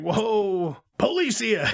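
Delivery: mock shout. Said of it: "and he's like".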